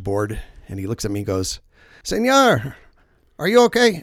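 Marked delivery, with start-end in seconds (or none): 2.0-4.0 high, loud call to a swimmer; imitated urgent holler; retold lifeguard shout. Lifeguard calling to swimmer in story.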